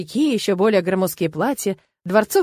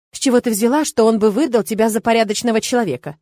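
ordinary delivery, nothing marked

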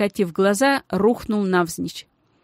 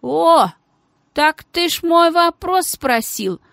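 lazy drawl; 8 semitones higher, 4 dB louder, slower than usual. Acted. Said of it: "ленивый с растяжечкой голос".

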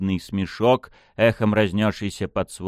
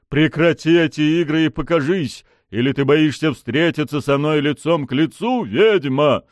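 high, tense, forceful anger; through gritted teeth; 7 semitones higher, 5 dB louder than usual. A narrator's reading. Furious prince challenges the witch, through gritted teeth. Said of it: "процедил он сквозь зубы".

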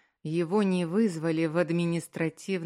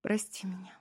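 whispered, tearful sorry; crying wife whispers forgiveness plea; 2 semitones higher, 5 dB quieter than usual. A narrator's reading. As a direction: breathe the apology through tears. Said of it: "шепча".

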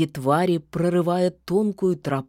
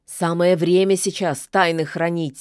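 grumbling; 3 dB louder than usual. Acted. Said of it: "сердито буркнула она".

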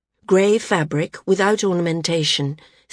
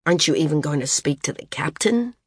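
sardonic; faster than usual. Acted. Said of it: "he asked sardonically".

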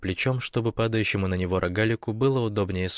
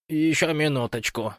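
drowsy, higher-pitched plea; sleepy; 6 semitones higher than usual. A narrator's reading. Woken Rogalik pleads for another minute, sleepily. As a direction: beg sleepily for more rest. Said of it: "сонным голосом попросил Рогалик".

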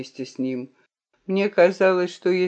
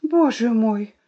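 high, loud cry of disbelief; shocked exclamation; 9 semitones higher, 5 dB louder than usual. A narrator's reading. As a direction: exclaim it, rising sharply in volume. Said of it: "воскликнула я".

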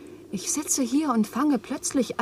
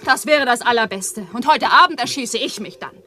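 bitter outburst; 6 dB louder than usual. Acted. Eva hurls scorn at the quarrelling men, shouting. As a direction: shout them down in despair.

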